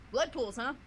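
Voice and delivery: high, loud squeaky critter voice; chattering excited little tree creature; squirrel character voice. Acted. Eunice the squirrel character talks.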